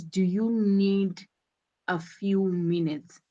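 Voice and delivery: second choice, dropping on "minutes"; pause, then bring "minutes" down; falling intonation on MINUTES. Shown as a demonstration. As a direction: let "minutes" fall at the end. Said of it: "the falling intonation on minutes".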